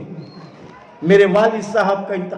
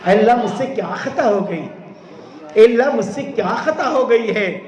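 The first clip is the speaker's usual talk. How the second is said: pleading cry; 3 dB louder than usual. Acted. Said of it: "رونے لگے".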